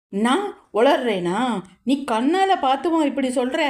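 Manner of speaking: a hint of crying in the question; tearful. A narrator's reading. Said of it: "அழுகையுடன் கேட்டாள்". (அழுகையுடன் கேள்வி)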